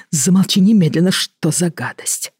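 revolted hushed rebuke; disgusted outburst. Acted. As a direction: snap in horror, trail off disgusted. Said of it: "шёпотом закричал Роман".

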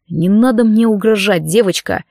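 growling. Acted. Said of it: "прорычал он".

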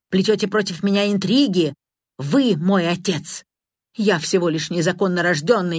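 a hint of frantic raging son; hysterical shouting. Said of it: "истеричные крики Эдгара". (слегка истеричный крик)

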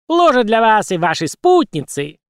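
high cartoon squeak; squeaky puppet voice. Puppet Punch speaking.

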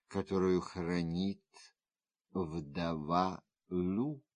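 understated, softly measured feminine confidence; quietly confiding woman. Acted. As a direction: confide a secret, hushed and unhurried. Figure speaks in dialogue.

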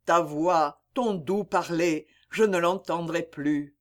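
plainte douloureuse, légèrement plus aiguë; complainte. Acted. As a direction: pleure sa bien-aimée sans sanglot audible. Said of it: "commencèrent les complaintes". (Vincent se lamente sur Mireille morte, plainte retenue)

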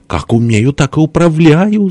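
high, drawn-out mock-weepy voice; tearful wail. A narrator's reading. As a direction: wail it plaintively, stretching the end. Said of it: "заплакал с той стороны Фёдор Кузьмич". (плаксиво, высоко и протяжно)

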